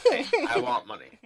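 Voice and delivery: high squeaky greedy voice; squeaky demand. Pretend. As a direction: pipe up greedily. Mock goblin-cave demand.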